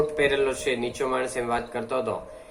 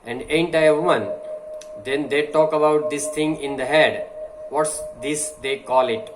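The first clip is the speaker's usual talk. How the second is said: slow, deliberate oratory reading; slow speech reading; 3 dB louder, much slower than usual. Acted. Teacher reading a speech to the class, slow and deliberate. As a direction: read each phrase slowly, like a speech.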